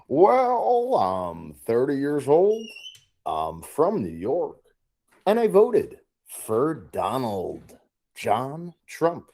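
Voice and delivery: weird affected voice. Acted. Caller answering the host's questions in a slow, put-on affected voice. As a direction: stretch each word out like a put-on character. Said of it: "talking with that weird affect to your voice".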